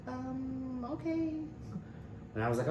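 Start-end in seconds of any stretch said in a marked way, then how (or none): 0.1-1.3 imitating Kinsey.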